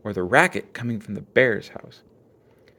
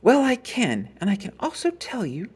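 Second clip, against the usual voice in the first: sternly; 10 semitones higher than usual. A narrator's reading. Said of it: "said Mama sternly".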